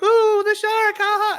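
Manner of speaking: high, mocking gasp of delight at the shark; imitating unimpressed guests cooing at the fake shark; mocking riders. Mimicking riders to his cohosts, high mocking coo. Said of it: "everybody's like".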